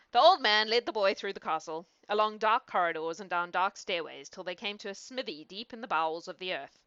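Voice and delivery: measured fairy-tale reading; storyteller's narration; story narration. A narrator's reading. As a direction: read it aloud as a bedtime tale. Reads a fairy tale aloud.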